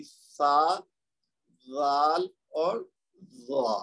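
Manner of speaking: slow, drawn-out letter sounds; slow letter demo. Shown as a demonstration. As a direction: model each letter for the class. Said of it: "تو پھر یہ ادا ہوگی".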